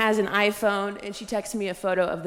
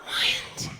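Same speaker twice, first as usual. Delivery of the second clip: stunned whisper; 3 dB quieter than usual. Acted. Incredulous reaction.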